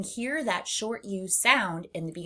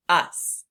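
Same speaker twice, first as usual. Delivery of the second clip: "us" said louder; stressed us; 7 dB louder than usual. Shown as a demonstration. Teacher stresses "us" for the class. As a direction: punch "us". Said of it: "or the word us".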